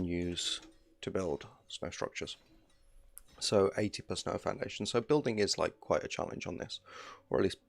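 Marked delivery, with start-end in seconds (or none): 4.8-7.6 talking through hiccups; words broken by hiccups. Real, not acted. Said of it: "got the hiccups".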